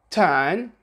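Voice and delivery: British "turn" with silent R; non-rhotic R. Shown as a demonstration. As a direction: say "turn" with no R sound, just a long vowel. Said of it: "the R is not pronounced".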